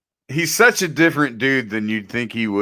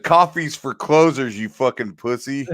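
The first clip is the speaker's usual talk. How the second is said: Alec Baldwin impression; 2 semitones higher than usual. Retelling the movie scene to his friend, mock sales boss. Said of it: "Alec Baldwin showed up and said".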